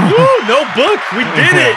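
high, loud whoop of victory; celebratory cheer. Pretend. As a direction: cheer it like a triumph. Celebrating the child being potty trained.

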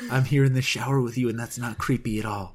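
a hint of a creepy whispery god; lightly voiced god in the shower. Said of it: "that's my God voice".

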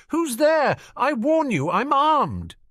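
loud, high-pitched threatening shout; shouted warning. Acted. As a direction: shout a warning at an unseen intruder. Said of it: "and shouted".

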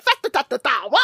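silly sing-song fake British babble; mock British accent. Host on the phone with her friend, mock British accent. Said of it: "what is this accent".

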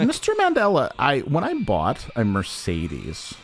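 lightly put-on South African voice; South African accent. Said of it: "sounds like Nelson Mandela now".

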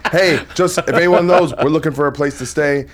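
mock stage announcement. Calling out from stage for housing.

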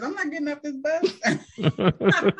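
flat, slow, no emotion at all; lightly voiced deadpan Rosa Parks; emotionless Rosa Parks. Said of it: "showed no emotion whatsoever".

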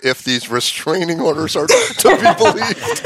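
quoting through laughter, slowed; laughing. Real, not acted. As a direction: reads the line back while cracking up. Mocking quote of S1's comment.

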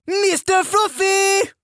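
put-on high drawn-out call of Mister Fluffy in French-Canadian accent; yelled French-Canadian call. Sergeant summons recruit's fuzz ball, French-Canadian accent yell. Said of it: "she would yell out".

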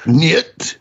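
mock Russian accent. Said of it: "you're speaking Russian".

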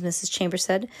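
ordinary delivery, nothing marked

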